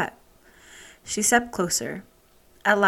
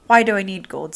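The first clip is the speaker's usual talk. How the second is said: loud scornful imp; giggly sneering imp; 6 dB louder than usual. Acted. Imp mocks queen's offer.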